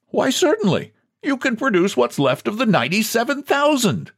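high, airy condescension; a hint of mocking agreeableness; lightly voiced glib president. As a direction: humour him with a lofty challenge. President mockingly answers the wailing man.

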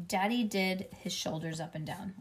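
usual speaking voice

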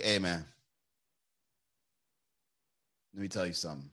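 slow smug debater. Pretend. Chin-rubbing debater in glasses winning the argument, low and slow. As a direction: take your time and let each word land like you already won. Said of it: "You gotta talk really slow".

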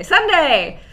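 hyped monster truck announcer. Pretend. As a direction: parody the Sunday Sunday Sunday promo. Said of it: "it's not a monster truck rally".

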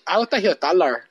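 lightly accented mom impression; mock Mexican-sounding accent. Host retrying partner's mom, light mock Mexican-sounding accent. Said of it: "she's not Mexican".

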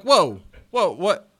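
hammed-up startled substitute; alarmed disbelief. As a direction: act out freaking out at the news. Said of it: "I'm like".

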